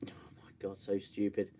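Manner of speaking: exasperated whisper under the breath; whispered aside. Real, not acted. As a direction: whisper it in disbelief. Disgusted aside at the show.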